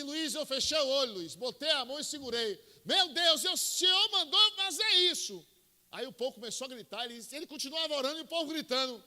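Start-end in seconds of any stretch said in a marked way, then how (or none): 0.0-5.4 high, loud crying out to God; fervent prayer cry. Retold or imitated. Friend reliving his prayer over the sick man, loud and high. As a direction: let the prayer burst out, straining.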